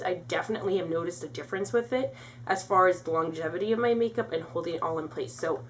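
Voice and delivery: breathless, quick phrases; out of breath. Real, not acted. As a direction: talk while short of breath. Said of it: "so out of breath".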